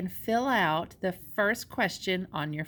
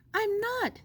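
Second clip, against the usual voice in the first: insistent; 12 semitones higher than usual. Acted. Edwina denies joking.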